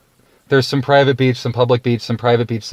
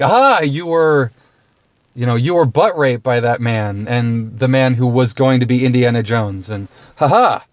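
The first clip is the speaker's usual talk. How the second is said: mock gotcha. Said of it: "I don't want people going like".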